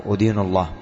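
أدين said wrongly as "udīnu", u-vowel first; mispronounced with damma. Shown as a demonstration. Teacher quoting a common mistake, أدين opened with "u". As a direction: start أدين with a short "u": "udīnu". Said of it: "بالضم، خطأ".

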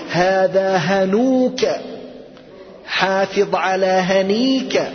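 هنوك and هنيك said slowly with the full ending; slow model sentence. Shown as a demonstration. Teacher models the rare full form هنوك to students, slowly. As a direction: spell out هذا هنوك slowly. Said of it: "أن تقول".

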